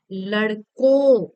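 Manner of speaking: लड़कों slow and loud, nasal ओं at the end; slow loud demo word. Shown as a demonstration. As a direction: stretch out लड़कों so the nasal ending rings. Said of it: "न वाला भी शब्द आ रहा है". (लड़कों धीरे और ज़ोर से, अंत में नाक वाली ध्वनि)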